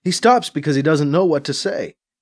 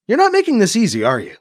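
exasperated; 10 semitones higher, faster than usual. A narrator's reading.

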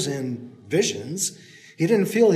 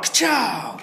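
echoing shot; 6 semitones higher than usual. A narrator's reading. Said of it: "Shotgun fire".

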